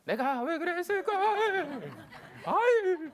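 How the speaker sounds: high, drawn-out wail of self-reproach; mock regret. Parent regretting hurting the child, exaggerated high wail. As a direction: lament it loudly like a remorseful parent, hammed up. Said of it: "생각을 하셨다면".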